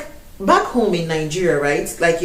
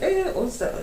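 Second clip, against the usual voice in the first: shocked question; 11 semitones higher, 7 dB quieter than usual. Retold or imitated. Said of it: "that I'm like".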